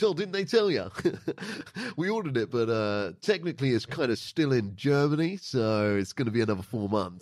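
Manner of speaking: imitating amused customer service; laughing shop assistant. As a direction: break the bad news with a chuckle. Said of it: "but he was laughing".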